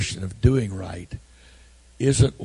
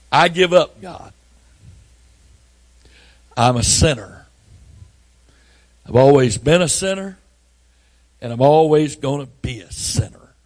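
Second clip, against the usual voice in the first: crying out in surrender; 4 semitones higher, 7 dB louder than usual. Retold or imitated.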